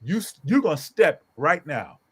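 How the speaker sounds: emphatic retold command; firm ultimatum. Father telling the other mother to leave, firm ultimatum. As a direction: deliver it as a measured final warning. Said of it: "exactly where I said it to her".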